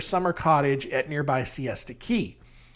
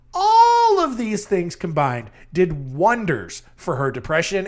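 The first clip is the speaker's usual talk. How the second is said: sarcastic; 4 dB louder, slower than usual. Acted. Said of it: "I obviously mean it made things so much worse".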